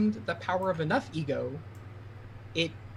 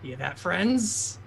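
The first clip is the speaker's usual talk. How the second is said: talking plant; 3 semitones higher, 5 dB louder, much slower than usual. Acted. Plant monster addresses its kin.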